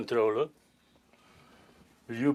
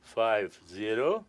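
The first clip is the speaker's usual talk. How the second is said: slowly repeating the digits; 4 semitones lower, much slower than usual. Shown as a demonstration. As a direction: take each digit slowly. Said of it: "An old man is not an, uh, fast train".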